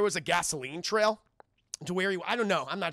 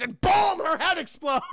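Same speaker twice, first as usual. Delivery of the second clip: excited; 11 semitones higher, 5 dB louder than usual. Real, not acted. Excited recap of a death scene.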